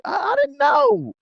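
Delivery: very high, drawn-out mock whine; flustered protest. Young driver answering the organizer's scolding, flustered mock protest. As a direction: squeak out a helpless, hammed-up excuse. Acts himself defensive when scolded.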